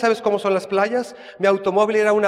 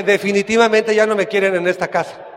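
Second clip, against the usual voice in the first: laughing; 4 dB louder than usual. Retold or imitated. Punchline about losing his bed.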